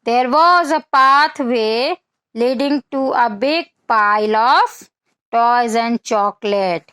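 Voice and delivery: put-on slow, clear read-aloud for children; slow storybook reading; story reading. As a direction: read each word out slowly for little kids. Reads English storybook text to children.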